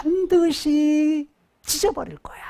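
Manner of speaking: preacher whispering God's vow; whispered threat. Shown as a demonstration. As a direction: hiss 반드시 찢어버릴 거야 as a secret vow. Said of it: "그래서".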